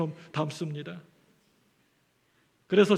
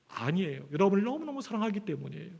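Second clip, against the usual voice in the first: sincere reassurance; 2 semitones lower, 8 dB quieter than usual. Real, not acted. Pastor assures congregation of love.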